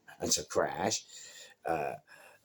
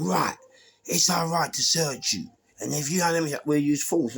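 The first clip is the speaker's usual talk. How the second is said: retold police shout; 8 semitones higher, 4 dB louder than usual. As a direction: play the aggressive officer barking a threat. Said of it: "he didn't have to shout at me".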